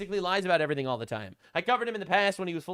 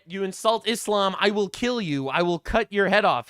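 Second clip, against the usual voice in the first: a touch of a threatening quote, a little louder; mock threat; 2 semitones higher, 6 dB louder than usual. Retelling the Twitter guy's threat, mild mock menace. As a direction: lightly act out his kill threat. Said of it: "he says".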